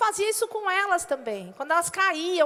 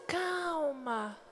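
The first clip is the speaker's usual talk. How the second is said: softer, gentle falling calm word; softly spoken calm word; 2 semitones lower, 7 dB quieter than usual. Shown as a demonstration. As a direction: say it to soothe. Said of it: "Fale assim".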